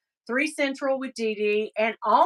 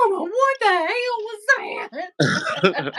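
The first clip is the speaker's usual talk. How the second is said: voicing the dog; 12 semitones higher than usual. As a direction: play the startled dog asking mama. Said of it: "She's like".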